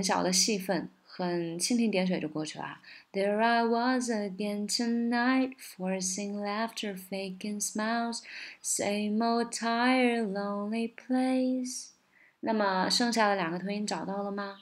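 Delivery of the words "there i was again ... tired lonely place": slow singing, "tonight" T dropped; barely touch the final consonants; swallowed consonants. Shown as a demonstration. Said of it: "第一个辅音很容易被吞掉的".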